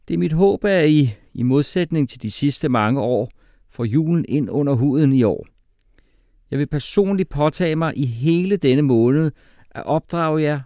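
high, loud, declaiming teacher voice; lecturing teacher. A narrator's reading. Teacher lecturing class on Danish Christmas, high and loud. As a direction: proclaim it loudly to the whole class.

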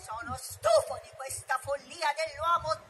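tiger's roar. Acted. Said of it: "Shere Khan ruggì".

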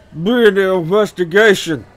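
forced out loud and sharp; spat out. Acted. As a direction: spit the words with effort. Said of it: "he spat out the words".

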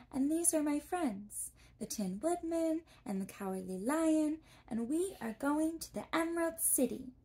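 put-on a polite girl introducing herself; young girl Dorothy. A narrator's reading.

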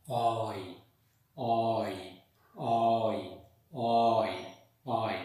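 "oi" said as o gliding into e, repeated; oi diphthong drill. Shown as a demonstration. Teacher drilling the class on "oi", gliding o to e. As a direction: glide "oi" from o to e each time. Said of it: "The sound starts with o and ends with e".

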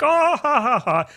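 high, loud mock laugh; staged ha-ha, pitched well up; imitated laughter. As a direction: act out an audience's hearty laugh. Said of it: "We laughed at stuff like this".

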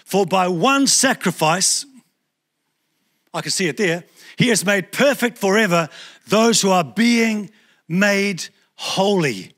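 measured, slow reading of the verse; slow scripture read. Shown as a demonstration. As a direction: read it slowly, word by word. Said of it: "Have a look in Hebrews ten fourteen".

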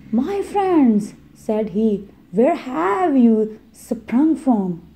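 high, then slow kindly question; shepherd greeting strangers; friendly shepherd. Acted. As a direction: greet them with gentle curiosity. Shepherd voiced in story.

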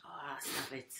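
breathy teasing whisper; unvoiced playful whisper. Real, not acted. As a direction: hush him under your breath. Teasing whisper at host's rant.

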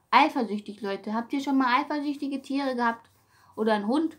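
ordinary talk

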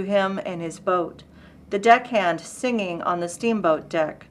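measured recitation with pauses between phrases; poetry reading. Acted. Reading Whitman to listeners for Independence Day, measured poetry reading. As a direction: recite each phrase deliberately, letting the list build. Reads a poem aloud.

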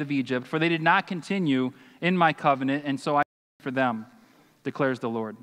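solemn reading of the prophet's words; scripture reading. Acted. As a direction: read the verses with weight and pauses.

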